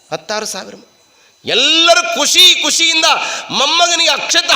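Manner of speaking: high, rousing storytelling; animated preaching. Acted. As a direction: paint the festive crowd for the congregation. Preaches a festive wedding scene.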